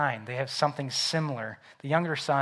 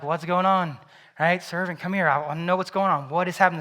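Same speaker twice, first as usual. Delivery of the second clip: put-on demanding older son; 3 semitones higher, 8 dB louder than usual.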